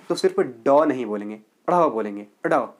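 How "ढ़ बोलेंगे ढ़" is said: ढ़ sounded with a light अ glide in front, flapped; ढ़ with a slight vowel before it. Shown as a demonstration. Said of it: "उसके आगे हल्का सा औ का".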